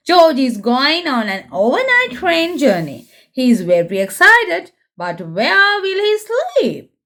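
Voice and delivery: lively storybook reading for little ones; reading to children. A narrator's reading. Presenter reading a Peppa book aloud to young viewers, lively storybook voice. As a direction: read it like a bedtime picture book.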